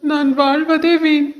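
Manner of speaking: a touch of tearful sorrow; crying. Acted. Little mango tree laments to God, mildly tearful. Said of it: "கண்ணீர் விட்டு அழுதுச்சு".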